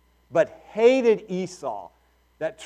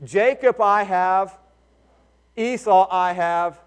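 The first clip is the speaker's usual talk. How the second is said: repeating louder and sillier; 2 semitones higher than usual. Shown as a demonstration. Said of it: "say it louder with me".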